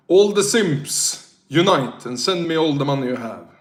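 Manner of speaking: rally your fans to pay up; mock rallying call. Begging chat for money.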